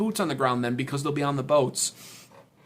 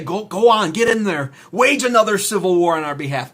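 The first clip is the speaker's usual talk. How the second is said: mock pep shove; 4 semitones higher, 7 dB louder than usual. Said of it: "a nice firm pat on the hiney and say".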